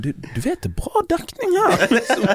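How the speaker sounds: laughing advice to dad. Retold or imitated. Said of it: "sa det til pappa sånn her".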